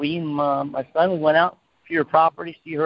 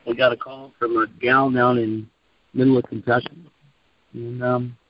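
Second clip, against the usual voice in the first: phone held away; 3 semitones lower than usual. Real, not acted. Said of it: "You have to talk closer to the, to the phone, Tom, because you're not coming in too close".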